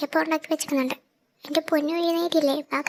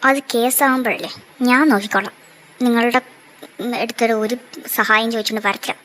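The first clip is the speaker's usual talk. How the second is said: defiant; 3 semitones lower, 3 dB louder than usual. Acted. Wife defiantly retorting during the quarrel. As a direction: spit it back at him.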